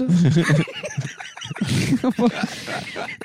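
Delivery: breaking into high laughter. Real, not acted. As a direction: laugh at your own joke. Laughing at own bit.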